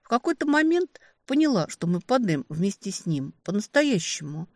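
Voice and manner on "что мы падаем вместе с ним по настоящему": ordinary delivery, nothing marked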